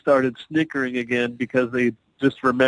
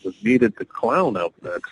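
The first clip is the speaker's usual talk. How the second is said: sheepish excuse; 3 semitones lower than usual. Retold or imitated. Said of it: "I was just like".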